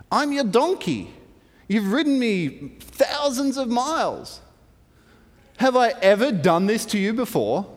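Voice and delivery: lightly voiced hurt protest; pleading donkey. Donkey reminding Balaam of their miles together, mildly pleading.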